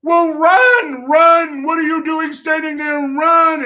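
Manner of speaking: high, loud shouting; frantic coach yell. Retold or imitated. Coach urging the kid to run, frantic shout. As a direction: holler urgently in a high imitated coach voice. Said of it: "the director slash coach was like".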